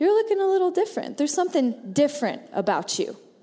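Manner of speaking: ordinary delivery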